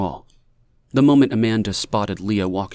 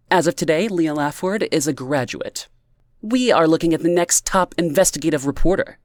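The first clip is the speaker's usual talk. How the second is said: put-on high, bubbly tipsy girl voice; giddy tipsy friend; 7 semitones higher than usual. A narrator's reading. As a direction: play the giddy drunk friend.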